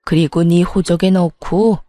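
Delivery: a hint of an authoritative father laying down orders; stern family patriarch. Father orders his sons about the family heir, lightly voiced stern patriarch.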